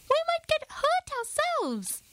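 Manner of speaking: high mouse voice, cautioning; warning old mouse. A narrator's reading. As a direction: warn the group, squeaky elder. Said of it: "he warned".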